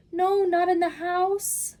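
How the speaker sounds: the fish scolding the cat for wrecking the house. Acted. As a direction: scold the cat shrilly for the mess. Fish objects.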